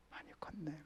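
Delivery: hushed mock rebuke; God's quiet taunt, whispered; whispered jab.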